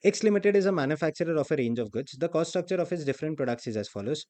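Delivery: reading the problem out slowly; deliberate exam-question read. Acted. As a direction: dictate the question at a slow pace. Reads question text aloud.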